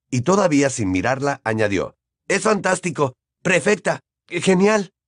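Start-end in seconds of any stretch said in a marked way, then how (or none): 2.3-4.9 high, forced enthusiasm; effusive. A narrator's reading. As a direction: pile on praise in an unnaturally raised voice. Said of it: "tan efusivamente que no parecía su voz". (entusiasmo efusivo, voz aguda)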